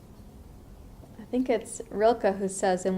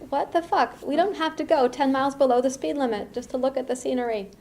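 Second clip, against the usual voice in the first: pitched way up, exasperated mock road rage; impatient outburst; 5 semitones higher than usual. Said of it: "I was urgent to get home".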